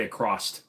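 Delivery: "across" ending in an added T, "acrosst". Shown as a demonstration. Streamer confessing an old habit, "across" said as "acrosst". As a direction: tack a T onto the end of "across". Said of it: "with a T".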